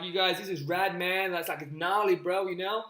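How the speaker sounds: lightly put-on American surfer slang; a hint of American dude-speak; American accent. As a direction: slip into a casual American accent. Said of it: "I don't know why I went American".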